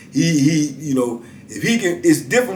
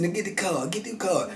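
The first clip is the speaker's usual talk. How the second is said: hustler patter; 3 semitones higher, 11 dB quieter than usual. Retold or imitated.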